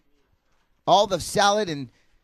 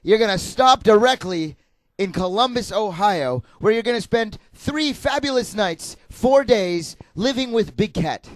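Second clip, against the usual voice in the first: booming prize announcer; 2 semitones higher than usual. Pretend. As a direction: sell the prize like a host. Game show prize pitch.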